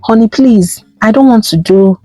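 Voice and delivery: pleading. Acted. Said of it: "Ifeoma pleaded".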